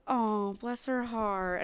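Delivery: mock sympathy, slowly drawn out; a slow, pitying "bless her heart" with a sting; passive aggressive. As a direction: feign sympathy, lightly. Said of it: "like a passive aggressive".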